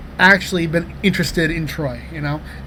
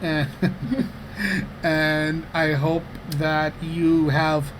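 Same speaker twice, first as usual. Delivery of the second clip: slow, softer, halting sincerity; heartfelt address; 5 dB quieter, slower than usual. Real, not acted. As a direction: tell your partner solemnly what you hope. Mock-solemn heartfelt speech to partner.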